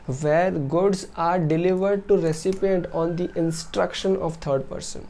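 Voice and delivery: reading the rule out word by word, very slowly; slow, deliberate reading of a legal definition; slow dictation. Acted. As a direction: dictate it slowly so students can note it down.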